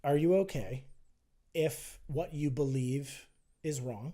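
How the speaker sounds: slow and deliberate, each word spaced out. Shown as a demonstration. Unhurried, careful repeat. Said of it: "can you just say that slower again".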